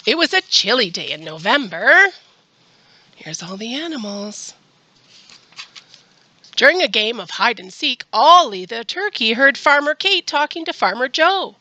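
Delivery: animated storytime reading; reading to children. A narrator's reading. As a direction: read a story to little kids, lifting the dialogue. Reads a picture book to children.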